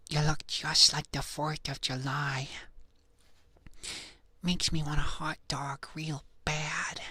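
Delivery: slow, drawn-out celebrity impression; slow impersonation with projected voice; Jennifer Coolidge. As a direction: stretch every word out lazily. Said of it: "Do you want Jennifer Coolidge A S M R?".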